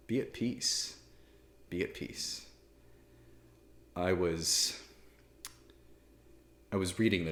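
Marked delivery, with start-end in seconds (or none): 0.1-2.5 soft whisper, repeated gently; whispered calm. Shown as a demonstration. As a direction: breathe it out like a blessing. Priest calming anxious listeners.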